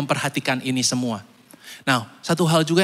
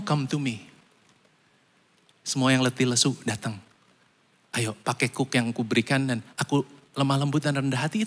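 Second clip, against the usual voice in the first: softer, tender voice of God; gentle invitation; 3 semitones lower, 5 dB quieter than usual. Acted. Preacher voices God calling the weary: soft, tender.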